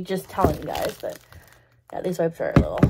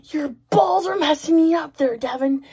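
quoting the teammate; 6 semitones higher, 3 dB louder than usual. Retold or imitated. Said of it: "she's like".

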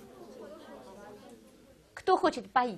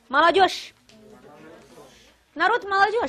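slow model words; 8 semitones higher, 7 dB louder, much slower than usual. Shown as a demonstration. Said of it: "teacher models words".

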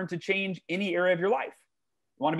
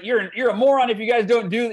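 blunt mentor; 5 semitones higher, 4 dB louder than usual. Retold or imitated. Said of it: "Robert's got his own style".

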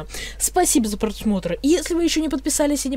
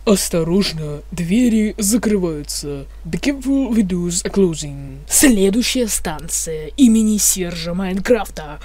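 metro announcer voice; mumbling subway conductor. Pretend. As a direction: read it like a train announcement. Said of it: "вы услышите информатор".

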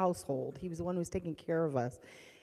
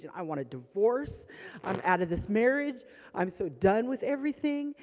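rising, emphatic fed-up rant; mad and upset; 3 semitones higher, 5 dB louder than usual. Retold or imitated. Wife fed up with the marriage, angry. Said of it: "I was so mad".

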